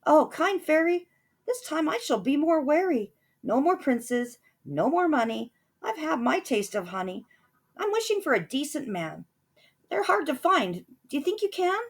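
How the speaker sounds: put-on high, wistful girl's plea; high wistful plea to the fairy; earnest Cindy. A narrator's reading. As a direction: ask it hopefully. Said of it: "Cindy answered".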